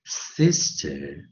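SISTER drawn out in two clear syllables; word demo. Shown as a demonstration. Teacher reading out a new word, word demo. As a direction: model "sister" slowly for learners. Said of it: "元辅音".

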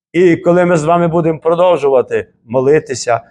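ordinary delivery

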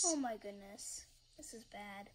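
hushed dismayed whisper. Real, not acted. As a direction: breathe it out under your breath. Watching her old video, dismayed.

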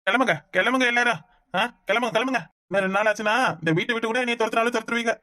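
tipsy, wounded grumbling; drunken ranting. Acted. Drunk son airing his grievances at home, drunken ranting. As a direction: complain bitterly as if drunk. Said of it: "இவன் குடிச்சிட்டு வந்து இந்த மாதிரி எல்லாம் பேசுவானா".

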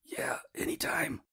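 high, slow, airless wheeze; wheezing. A narrator's reading. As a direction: squeeze the words out with crushed lungs. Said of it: "I wheezed".

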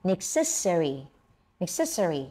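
"necessary" in four distinct syllables; four-syllable demo. Shown as a demonstration. Teacher repeats a new word for students to copy, four-syllable demo. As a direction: model "necessary" carefully, every syllable sounded. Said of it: "มีสี่พยางค์นะ".

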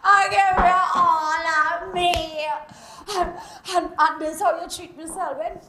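angry Caribbean woman yelling curses at a man's house; furious cursing woman. Acted. Jilted woman outside Selwyn's house, furious yelling. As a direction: rage at him, loud and raw.

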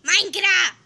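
loud, high excited cry; excited shout. Pretend. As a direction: tack on a gleeful yell. Ad-lib after the shout. (grito emocionado de niña rata)

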